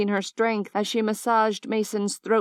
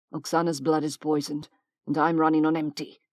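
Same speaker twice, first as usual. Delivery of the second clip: grated; 4 semitones lower, faster than usual. Acted. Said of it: "Xander grated".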